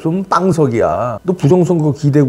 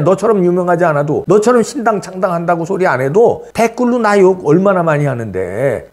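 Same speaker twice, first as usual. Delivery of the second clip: ordinary talk, nothing marked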